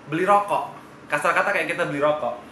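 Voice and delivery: talking while smoking a cigarette; cigarette in mouth. Real, not acted. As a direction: speak around a cigarette in the mouth. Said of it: "Ini saya sambil-sambil ngerokok ya".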